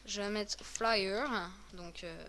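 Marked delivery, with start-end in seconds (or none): 0.6-1.3 slow French-accented attempt at English; hammed-up English accent. Real, not acted. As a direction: say FLYER slowly in would-be English accent. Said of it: "avec mon super accent anglais".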